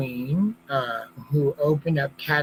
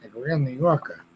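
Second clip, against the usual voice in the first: talking out of one side of the mouth; half-frozen face, mouth corner speech. Real, not acted. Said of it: "I'm talking out of the side of my mouth like that".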